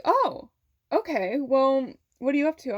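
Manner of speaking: high-pitched "oh", easing down into a casual question; surprised aunt. Retold or imitated. Aunt taking an unexpected call from her niece, lightly surprised.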